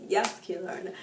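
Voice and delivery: building from plain to loud cheering; cheering relief. Retold or imitated. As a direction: celebrate the character's comeback. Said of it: "I was like".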